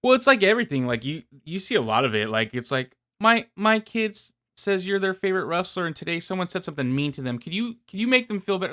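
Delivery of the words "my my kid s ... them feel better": pleading fan parent. Acted. Fan parent asks a wrestler to comfort the kid, pleading. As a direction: wheedle a wrestler on your kid's behalf.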